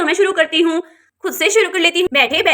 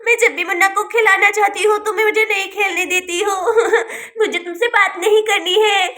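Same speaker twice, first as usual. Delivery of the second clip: whiny crying; 2 semitones higher than usual. Acted. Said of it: "तुम क्यों रो रही हो बेटा?".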